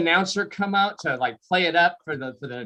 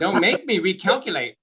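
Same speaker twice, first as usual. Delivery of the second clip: put-on lightly scolding Georgia-accented GPS; country Georgia accent; 2 semitones higher than usual. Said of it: "the directions would be all country".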